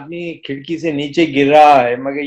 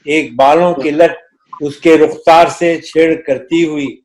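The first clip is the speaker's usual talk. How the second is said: stately nazm recitation. Acted. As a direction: recite the poem with gravity.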